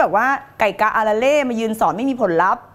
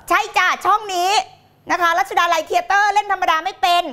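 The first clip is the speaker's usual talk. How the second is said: higher, showy second voice; put-on second voice; 5 semitones higher than usual. Host answers why she performs so big, showy second voice. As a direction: pitch it up theatrically. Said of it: "เสียงสองมาแล้วแม่".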